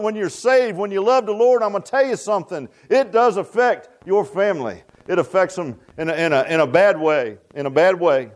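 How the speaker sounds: urgent, driving sermon cadence; fervent preaching. Acted. Preacher pleading with parents to pray for lost children, fervent preaching. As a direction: press the point on the congregation.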